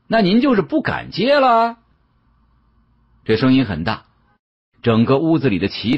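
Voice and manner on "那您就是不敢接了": raised voice. A narrator's reading. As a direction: throw the challenge up high so the whole room hears. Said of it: "嗓门又提高了一点".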